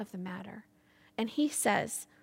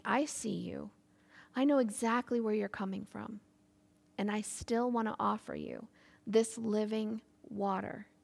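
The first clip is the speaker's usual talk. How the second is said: gentle reassurance; 4 dB quieter than usual. Acted. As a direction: reassure someone who feels defenseless. Jesus gently reassures the exposed woman.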